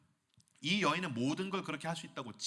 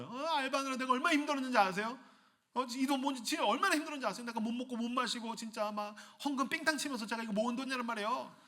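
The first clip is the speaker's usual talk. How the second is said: high-pitched pleading complaint; indignant protest; 6 semitones higher than usual. Acted. Young worker protesting to God over savings, aggrieved. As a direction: defend hard-earned savings, whining.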